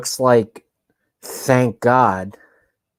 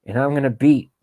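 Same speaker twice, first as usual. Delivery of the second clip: Biden impression; 3 semitones higher than usual. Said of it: "Was that at my Biden parody?".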